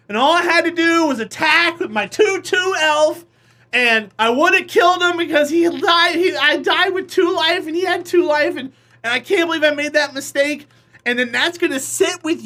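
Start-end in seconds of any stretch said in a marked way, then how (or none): 0.1-10.7 higher, louder self-scolding rant; frustrated rant. Retold or imitated. Player ranting at himself after losing, higher and louder. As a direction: beat yourself up over the missed attack.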